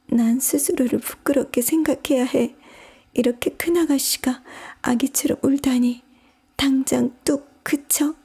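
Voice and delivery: put-on high girlish voice of Alice; Alice telling herself off, pitched high; self-scolding Alice. A narrator's reading. Alice sitting crying on the floor, scolding herself.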